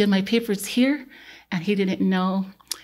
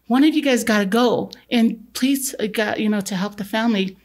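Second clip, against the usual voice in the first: urging; 2 semitones higher than usual. Retold or imitated. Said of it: "'Cause he kept saying".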